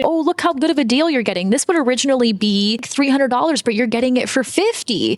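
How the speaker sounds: mock thrilled shopper at a sale; excited shopper. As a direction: sell yourself the bargain. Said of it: "So you see it".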